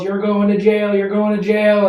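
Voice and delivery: high, loud retold threat; imitated yelling mom. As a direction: yell it high as a scolding mom. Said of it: "She goes".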